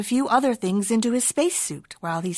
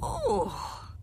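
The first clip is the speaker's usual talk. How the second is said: soft contented sigh; 8 dB quieter than usual. Acted. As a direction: let the word melt out on a sigh. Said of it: "sighed Don Diego".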